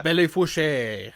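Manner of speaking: Fouche ending in "shay"; slow Belle Fouche, said "bell foo-SHAY"; French-style reading. Shown as a demonstration. Trying the town's name, Belle Fouche said as "foo-SHAY".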